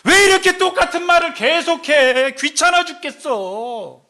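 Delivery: loud, high mock grumble, dragged out at the end; exasperated listener, acted; annoyed complaint. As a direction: act out being fed up with nagging. Acted annoyed complaint at repeated words.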